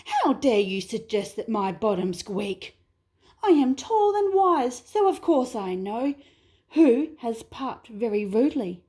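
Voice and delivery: a touch of offended huff; lightly haughty, bristling; mild emu indignation. Acted. Emu answers the wombat's accusation, mildly indignant. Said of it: "The emu was angry".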